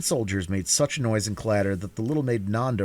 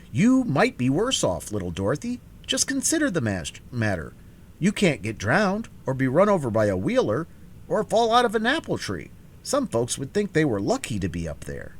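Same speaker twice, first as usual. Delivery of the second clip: higher, lively straw-man voice; cheerful Scarecrow; 7 semitones higher than usual. A narrator's reading. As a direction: cheer the trapped girl up, light and chatty.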